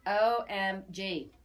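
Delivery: slow, spelled-out O M G; drawn-out playful O M G; letter by letter, mock dramatic; dorky OMG. Real, not acted. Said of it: "I still say that because I can be dorky".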